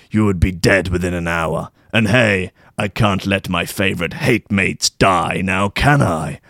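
lightly voiced hippie saviour explaining calmly; the wook. The wook turns to me and he says.

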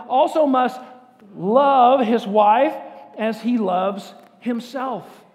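loud, slow, drawn out; loud group read. Shown as a demonstration. Pastor reads the verse together with the congregation. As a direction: stretch out love his wife. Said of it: "let's say it together".

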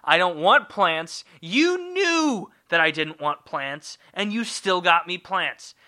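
mildly exasperated mock complaint; a touch of acted frustration; frustrated God. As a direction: play a fed-up God lightly. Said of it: "in frustration, and was like".

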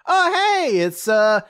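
hammed-up cheery friend; mock cheerful. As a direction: babble brightly like nothing's wrong. Imitating Asahi's oblivious chatter.

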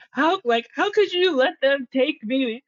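lightly acted sob of an abandoned kid; crying plea. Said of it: "I just remember crying and being like".

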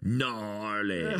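easygoing surfer-bro American voice; American surfer accent. Pretend. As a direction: sound like a beach dude. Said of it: "now I'm gonna talk like this".

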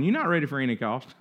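God gently telling the eager believer no; God's voice. Retold or imitated. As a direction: answer like a patient father, low. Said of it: "And he's going".

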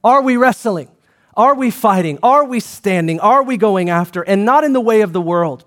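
punched questions, each "are" hit; rally the room; rhetorical challenge. Acted. Pastor challenging the congregation, fervent questions.

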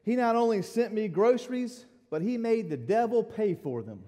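high, loud and laughing; triumphant and delighted; laughing gleeful praise; gleeful punchline. Retold or imitated. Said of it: "she said".

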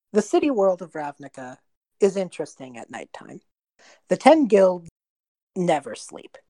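lightly dramatic storyteller; narrator voice. A narrator's reading. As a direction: read it like an epic intro. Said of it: "take on a bit of a narrator voice".

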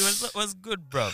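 high-pitched mock London mandem; playful attempt at London mandem talk; London mandem accent. Shown as a demonstration. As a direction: try on London roadman slang, hammed up. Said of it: "Try to talk like Mandem".

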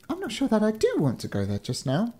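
high-pitched hesitant fairy. A narrator's reading. Fairy unsure about going home, high fairy voice. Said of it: "said the fairy".

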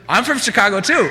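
amused, can't keep a straight face; laughing reply. Retold or imitated. Staff answer the customer's claim.

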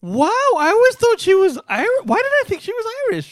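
high, loud fake astonishment; mock amazement. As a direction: play up the shock, high. Mock bewilderment at own mistake.

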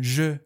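"ژ" as French je, with rounded eu after it; French vowel sound. Shown as a demonstration. Teacher giving an example of e, French-style "ژ".

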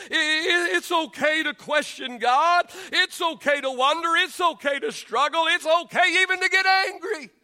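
rising preaching. Real, not acted. Preacher urging the church it's okay to question God, fervent shout. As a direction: build the fervour to a shout.

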